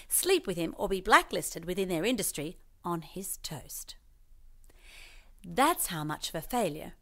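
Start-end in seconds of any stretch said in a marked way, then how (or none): 2.8-3.9 slow hushed whisper. A narrator's reading. Narrator whispering the absurd toast punchline.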